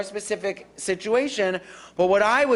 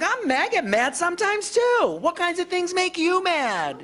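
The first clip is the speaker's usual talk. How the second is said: empathetic reply; 9 semitones higher than usual. Shown as a demonstration. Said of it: "Be like".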